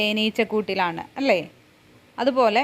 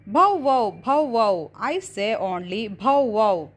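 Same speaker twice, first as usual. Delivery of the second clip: lightly voiced dog, woofing "bow wow"; barking dog; much slower than usual. Teacher voicing the dog answering the puppy, mock barking. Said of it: "അപ്പോൾ dog പറയാണ്".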